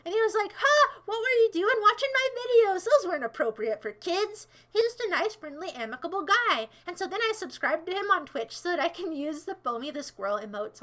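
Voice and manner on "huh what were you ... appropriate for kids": higher-pitched startled quote; taken aback. Retold or imitated. Cartoonist questions a young fan about watching, taken aback. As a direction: react with mock surprise.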